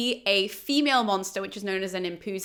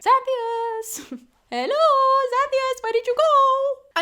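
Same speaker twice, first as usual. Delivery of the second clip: high called-out voice into the dark; calling out; 14 semitones higher, slower than usual. Retold or imitated. Dionysus calling into the darkness for Xanthias, high call. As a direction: call out to a lost servant. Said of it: "starts calling out into the darkness".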